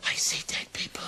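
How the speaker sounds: hushed film-line whisper; creepy whisper. Acted. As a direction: whisper it spookily for a laugh. Film line given as eye-test answer.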